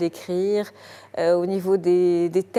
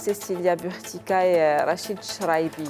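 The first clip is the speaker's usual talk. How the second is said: présentation d'émission. Acted. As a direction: lecture posée de présentatrice télé. Présentation lue de l'émission. (présentation télévisée de l'invitée)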